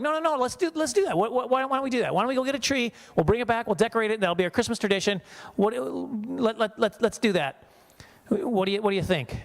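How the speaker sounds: high, insistent imitation of his wife; mock pleading wife. Wife pushing her reluctant husband toward a tree, high pleading. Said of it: "But my wife was like".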